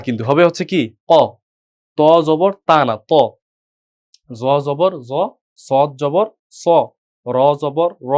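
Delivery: কফ জবর said with a short ক, not কা; short o vowel. Shown as a demonstration. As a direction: keep the vowel short and rounded like অ. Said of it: "অ এর মতো উচ্চারণ হচ্ছে".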